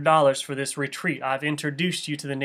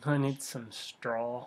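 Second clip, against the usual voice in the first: put-on hillbilly accent; 3 semitones lower, 11 dB quieter, slower than usual. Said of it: "I like my hillbilly the best".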